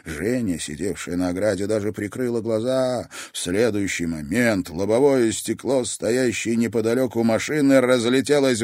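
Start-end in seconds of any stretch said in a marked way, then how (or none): none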